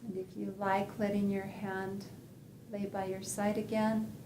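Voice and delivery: unhurried body scan guidance with long pauses; calm, measured meditation guide; guided meditation. Acted. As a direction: lead them gently through a body scan, leaving space between phrases.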